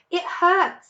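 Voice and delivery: mild wince in the words; lightly voiced hurt fox. A narrator's reading. Mr Fox to his wife about his tail, mildly pained. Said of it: "said Mister Fox".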